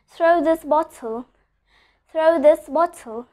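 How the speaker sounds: slow demo, crisp T in "bottle"; "bottle" said slowly with a true t, never dropped; pronounced T. Shown as a demonstration. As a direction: sound the T fully in "bottle". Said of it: "I'm pronouncing the letter T over here".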